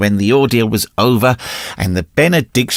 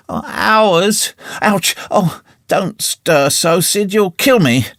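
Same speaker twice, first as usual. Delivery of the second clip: hammed-up agony; 7 semitones higher, slower than usual. A narrator's reading. Tom fakes agony in bed.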